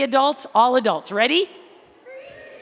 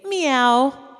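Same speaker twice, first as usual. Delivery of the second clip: rising, louder meow like a cat; 3 semitones higher, 6 dB louder than usual. Shown as a demonstration. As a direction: show the kids the cat sound. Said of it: "This section, you need to say".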